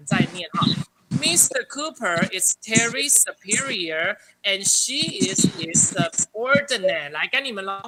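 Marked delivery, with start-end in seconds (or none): 1.2-7.1 slow, clear read-aloud for students; slow model reading. Shown as a demonstration. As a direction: read it out word by word for the class. Teacher reads model sentence. (老师给学生示范，慢慢清楚地朗读)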